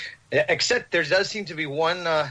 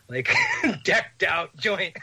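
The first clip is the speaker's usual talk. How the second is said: slow, higher, breaking up with laughter; laughing; 8 semitones higher, much slower than usual. Real, not acted. Storyteller relishing the brand new MacBook mistake, laughing. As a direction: laugh through the words.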